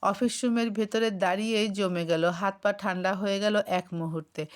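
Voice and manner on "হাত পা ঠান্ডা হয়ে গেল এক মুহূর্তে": ordinary delivery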